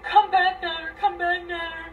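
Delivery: high, loud panicked calling out; imitating her shrieking to come back; frantic yell. Dee Dee freaking out as they drive away, mock frantic yell. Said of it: "freaking out".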